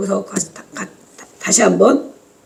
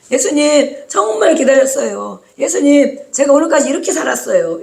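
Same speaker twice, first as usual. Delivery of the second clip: acted welcome; 4 semitones higher than usual. Voices a believer welcoming Jesus.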